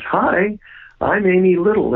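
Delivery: a hint of an eager young teacher saying hello; imitating Amy Little. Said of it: "and she says".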